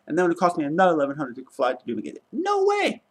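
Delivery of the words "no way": outraged no. Real, not acted. Rant about overpriced rebooking fee.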